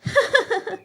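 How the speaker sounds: high, nasty laugh; mocking cackle. Gauri crow laughing at Rano's daughter. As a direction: cackle at the sparrow's expense.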